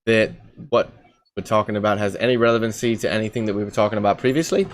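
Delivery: put-on English accent, insisting innocently; casual mock-English explanation. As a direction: bluff along in a fake English accent. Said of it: "fucking English".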